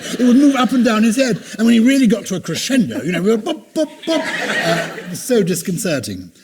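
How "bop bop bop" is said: high, punchy "bop" sounds; bouncing imitation. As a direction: bop along with the crescendo. Mimics toupee bobbing at crescendo.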